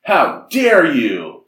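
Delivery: mock dog yell. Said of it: "the dog, and yells".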